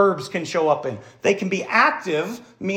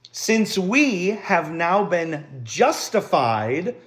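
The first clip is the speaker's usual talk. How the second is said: scripture reading; slower than usual. Acted. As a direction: read the apostle's words as a preacher, savoring each phrase. Reads Romans aloud to congregation.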